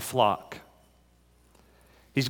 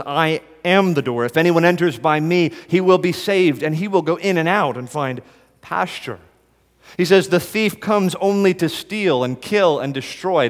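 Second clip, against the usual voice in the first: fervent reading; 4 semitones higher, 3 dB louder than usual. Acted. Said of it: "Jesus says".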